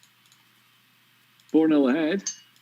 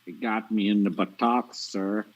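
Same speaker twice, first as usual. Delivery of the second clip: Forrest Gump impression; slower than usual. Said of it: "that was Forrest Gump".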